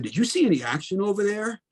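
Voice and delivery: a faintly sinister question with a hint of menace. Businessman on the plane quizzing the soldier, lightly sinister. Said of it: "with a more sinister kind of tone".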